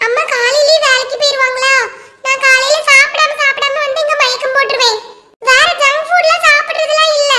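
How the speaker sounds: lightly voiced child pleading her case; pupil explaining. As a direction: explain to teacher like a schoolkid.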